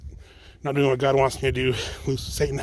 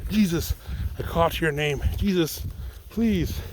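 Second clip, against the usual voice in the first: pleading prayer; 4 semitones higher than usual. Retold or imitated. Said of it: "I was like".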